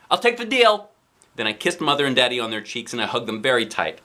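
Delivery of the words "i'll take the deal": put-on high eager child voice; excited child. A narrator's reading. Kid accepting parents' deal, high and eager. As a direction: jump at the offer. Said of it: "I shouted out".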